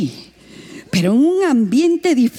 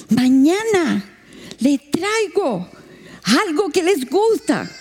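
native villager; 5 semitones higher, slower than usual. Retold or imitated. Native man voiced in story.

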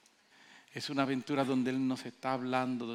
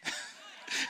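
high, loud laughing what; preacher laughing at the doubting pastor; laughing disbelief; 10 semitones higher, 5 dB louder than usual. Retold or imitated. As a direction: laugh out the question. Pastor retells his disbelief.

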